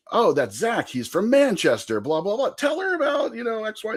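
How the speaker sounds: high-pitched mock girl voice; eager girl. Coworker shows off the supposed Brit to her friend, high imitated girl voice. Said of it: "And the girl's like".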